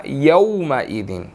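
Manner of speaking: यौमइदिन slow with au, not yo; यौमइदिन, au sound; correct diphthong. Shown as a demonstration. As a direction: draw out यौमइदिन with au. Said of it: "कि यो नहीं पढ़ना".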